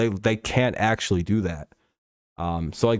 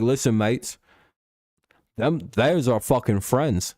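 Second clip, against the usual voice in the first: bad Australian accent; slower than usual. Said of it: "I can't do Australian accents".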